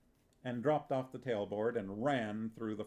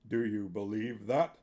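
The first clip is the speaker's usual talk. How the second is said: confiding actor manager; 4 dB louder than usual. A narrator's reading. Vitoller leans in.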